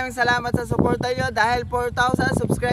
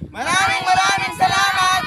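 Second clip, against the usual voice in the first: excited; 7 semitones higher than usual. Real, not acted. Closing thanks to subscribers.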